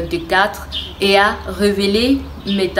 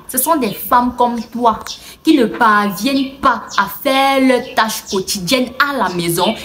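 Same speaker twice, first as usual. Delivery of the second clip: mildly heated, higher-pitched reproach; reproachful scolding; 3 semitones higher than usual. Acted. Mother lectures her daughter about women like her, reproachful. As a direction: lay the blame on her, pitch lifted.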